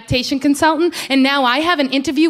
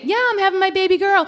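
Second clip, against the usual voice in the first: fake proud mom-to-be; 4 semitones higher than usual. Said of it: "I just say, I fake it".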